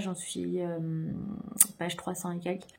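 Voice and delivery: words stretched by a yawn. Real, not acted. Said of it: "Pardon, j'ai baillé".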